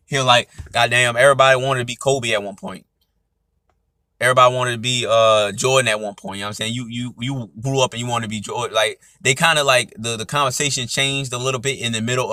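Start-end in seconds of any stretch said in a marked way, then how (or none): 0.7-6.4 lightly imitated Atlanta accent. Retelling the rapper's words for viewers, light Atlanta accent. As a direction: quote it in a mild put-on Atlanta accent. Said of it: "trying to do my little, uh, Atlanta accent".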